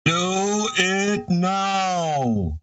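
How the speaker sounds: very slow, high echoing command; demonic layered voice. Acted. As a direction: stretch it through the echo tube. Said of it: "I'll use the echo tube".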